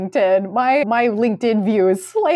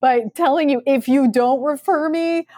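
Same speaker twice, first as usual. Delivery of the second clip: laughing mock; 3 semitones higher than usual. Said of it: "it's like".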